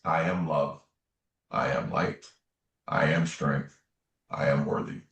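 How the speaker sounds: spaced-out, low-pitched affirmations; measured affirmation. Retold or imitated. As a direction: say each affirmation separately, pausing between them. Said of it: "Can you just say this?".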